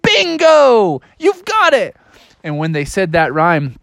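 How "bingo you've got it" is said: high, jubilant falsetto; Mother Goose. Acted. Teacher cheers the correct rhyme, high jubilant goose. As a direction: exclaim triumphantly in a goose voice. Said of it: "She's like".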